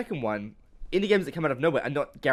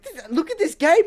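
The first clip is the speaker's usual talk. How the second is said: much higher, louder, laughing fan gush; laughing excitement; 7 dB louder than usual. Retold or imitated. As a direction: squeal through laughter about the game. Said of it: "you and I are like".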